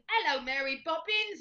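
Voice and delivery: high, slow put-on British accent; stretched-out hammy British accent; mock British accent. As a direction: imitate a stock British greeting. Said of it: "Or the classic".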